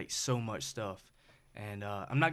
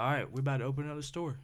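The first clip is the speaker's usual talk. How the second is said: calm, casual retold decision; nonchalant; faster than usual. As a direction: toss it off quickly, no big deal. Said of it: "he said that very nonchalantly".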